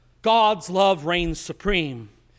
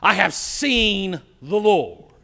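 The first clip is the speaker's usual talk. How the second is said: awed whisper; 4 dB louder, slower than usual. Acted. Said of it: "amazing universal transforming proclamation".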